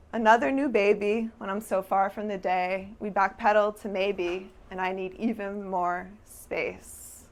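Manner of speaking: rhythmic poem recital; spoken-word poem. Acted. Reciting her own poem to the audience, rhythmic spoken word. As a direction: deliver each couplet with steady rhythmic weight.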